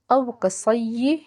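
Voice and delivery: او کصی, syllables drawn out slowly; slow spelled-out reading. Shown as a demonstration. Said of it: "ہجوں کے ساتھ پڑھتے ہیں".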